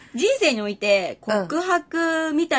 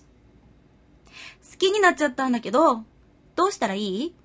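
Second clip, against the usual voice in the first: moe line. Acted. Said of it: "さゆみちゃんの萌え台詞".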